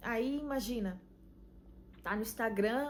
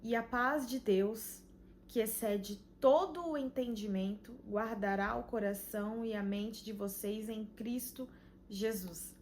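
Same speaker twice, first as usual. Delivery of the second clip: scripture reading. Shown as a demonstration. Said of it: "diz assim".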